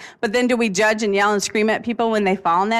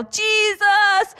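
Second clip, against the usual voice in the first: defiant yell; 11 semitones higher than usual. Pretend. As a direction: shout it like a martyr who won't give in. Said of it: "I'll just yell".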